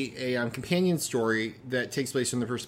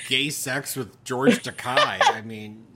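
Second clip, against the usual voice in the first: slow, laughing through the words; 6 dB louder, slower than usual. Real, not acted. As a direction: giggle as you say it. Laughing at his own remark.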